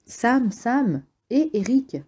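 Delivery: high, frightened calling of names; panicked cries. Acted. Twins calling each other, high and scared. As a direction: cry out in terror in the dark.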